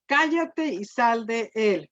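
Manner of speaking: slow, firm command with authority; Jesus silencing the demon with calm authority. Retold or imitated. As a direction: order the demon out, slow and sure. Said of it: "Fíjese con qué autoridad".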